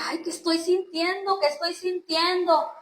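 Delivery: voz más aguda, pregunta repetida con asombro; desconcierto revivido. Retold or imitated. Revive su desconcierto ante Dios. (desconcertada, reviviendo el momento)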